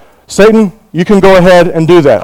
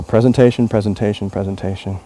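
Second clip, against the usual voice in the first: fussing over presentation; 9 semitones lower, 10 dB quieter than usual. Real, not acted. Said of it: "They say it's on the presentation".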